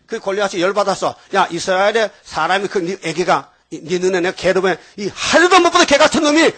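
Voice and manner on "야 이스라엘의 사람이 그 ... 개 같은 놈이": mock furious giant. Goliath enraged, voiced.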